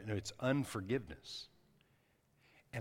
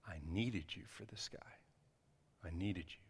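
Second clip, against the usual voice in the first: voice of the Holy Spirit; 7 dB quieter than usual. Retold or imitated. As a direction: speak it softly and deliberately, as God's quiet word. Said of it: "I heard the Holy Spirit say".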